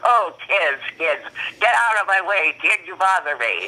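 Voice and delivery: a lightly voiced grumpy comedian, rising pitch; imitating W C Fields. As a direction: shoo the kids off like a cranky old comic. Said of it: "He ruffled his hat and said".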